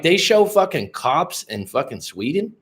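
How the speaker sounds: retold incredulous reaction; astonished. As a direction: act out being amazed at the absurdity.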